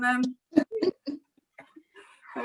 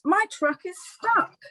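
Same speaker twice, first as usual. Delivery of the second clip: snappy duck; 7 semitones higher than usual. A narrator's reading. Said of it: "he snaps".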